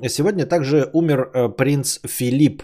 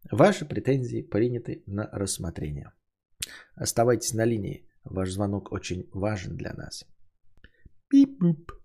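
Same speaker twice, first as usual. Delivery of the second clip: call center hold message; 5 semitones higher than usual. Pretend. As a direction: play an automated hold line. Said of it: "Я же вам это, эм, экранизировал".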